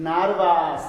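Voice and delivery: "নার্ভাস" loud, in two clear syllables. Shown as a demonstration. Teacher listing breakable words, loud split syllables. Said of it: "দেখো যে দুইটাকে ভাঙা যায়".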